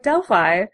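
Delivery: Delphi ending like "fye"; American pronunciation. Retold or imitated. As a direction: answer with Delphi rhyming with "eye". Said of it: "Well, what do you say?".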